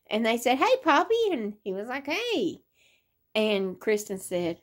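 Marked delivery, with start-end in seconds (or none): 0.6-1.3 put-on very high-pitched child's greeting; imitated little child. 2.1-2.6 imitated greeting back. Acting his answer to the children.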